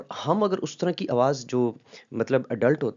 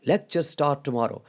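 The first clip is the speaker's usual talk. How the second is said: much louder, slowed, every word pressed; loud emphatic take; 2 semitones higher, 4 dB louder, much slower than usual. Shown as a demonstration. Teacher showing a loud, forceful reading to students. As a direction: announce it firmly and slowly. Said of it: "इन चारों में".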